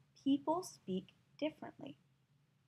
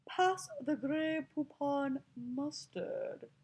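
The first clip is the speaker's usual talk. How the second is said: slow, higher snooty British accent; mock-posh British drawl; British snob accent; 4 semitones higher, much slower than usual. Shown as a demonstration. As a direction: imitate a British snob, vowels drawn out. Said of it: "trying to imitate an accent".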